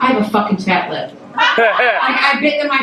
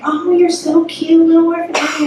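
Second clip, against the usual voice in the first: gushing grandmother; 5 semitones higher than usual. Retold or imitated. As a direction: imitate a doting grandma fussing. Grandmother gushing over child's costume.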